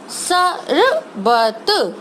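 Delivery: शरबत stretched letter by letter, very slowly; slow sounded-out word. Shown as a demonstration. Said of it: "उसका sound slow बोल रही हूँ". (शरबत को अक्षर-अक्षर बोलना)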